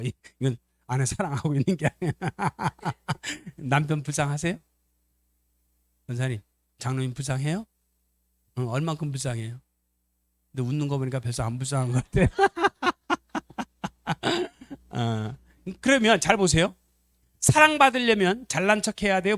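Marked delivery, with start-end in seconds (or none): 2.2-3.5 real chuckle, higher than speech; laugh. Real, not acted. Speaker amused by his boastful husband example, laughing. 12.4-14.9 real, very high-pitched laughter. Real, not acted. Preacher teases a listener about not pitying, laughing. Laughter after teasing remark.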